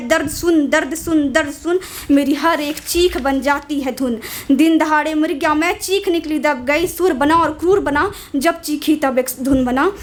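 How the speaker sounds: measured, solemn spoken-word recital; poem recital. Acted. Poet reciting her poem to the audience, solemn recital. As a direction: deliver the poem line by line with weight.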